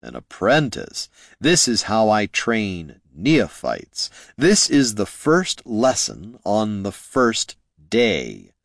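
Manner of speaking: slow, measured mentor voice; stern mentor. Acted. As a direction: lay it out deliberately. Mentor Jin rebuts Loruna.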